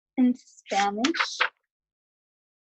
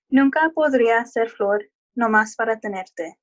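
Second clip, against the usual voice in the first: reading in Spanish. Shown as a demonstration. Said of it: "or try to read it in Spanish".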